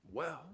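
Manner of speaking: Well, then hold the silence; drawn-out Well before a dramatic pause; dramatic pause after Well. Retold or imitated. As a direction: let Well hang with a long pause. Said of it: "with a dramatic pause".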